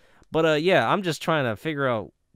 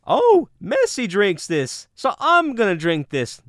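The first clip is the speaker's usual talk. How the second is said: higher, louder, slow mock fan voice; mock eager fan; 7 semitones higher, 5 dB louder than usual. Mocking his past self buying it because Messi drinks it, hammed-up eager voice. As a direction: ham up a starstruck Messi fan. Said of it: "I got this because".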